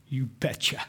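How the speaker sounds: a soft, unvoiced answer; whispered aside. Real, not acted. Answering his own question to the congregation in a whisper. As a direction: whisper it knowingly. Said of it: "quiet aside answer".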